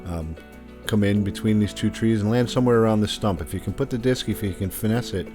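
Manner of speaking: hole preview voiceover; steady course walkthrough read; golf commentator. Acted. Recorded hole preview over music.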